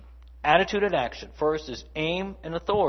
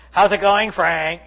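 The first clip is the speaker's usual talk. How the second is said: a loud sarcastic hello; loud mock greeting with attitude; mock grumpy greeting; 4 semitones higher, 9 dB louder than usual. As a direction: toss off a sour greeting. Mock greeting showing bad attitude.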